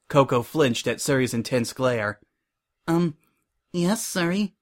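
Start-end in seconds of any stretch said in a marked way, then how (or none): 2.9-4.5 small, higher, hesitant voice; nervous reply. A narrator's reading. Coco answers Suri's intense glare, nervously. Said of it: "she replied nervously".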